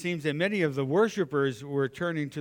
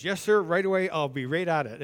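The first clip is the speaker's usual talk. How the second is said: snap compliance; 3 semitones higher than usual. Retold or imitated. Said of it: "And he did one of these".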